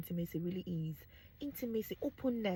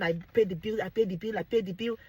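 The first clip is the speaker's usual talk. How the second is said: louder, mocking a bullying husband; mocking domineering husband; 6 dB louder than usual. Husband pressing his wife down, mock bullying. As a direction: throw it in her face. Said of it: "you press her down".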